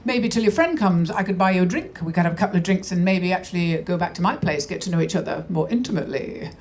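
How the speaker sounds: low, lightly voiced sleazy husband; a hint of a smarmy seducer, sinking low; sleazy chat-up. Husband chatting up his wife in the pub, lightly voiced and smarmy. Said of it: "he goes".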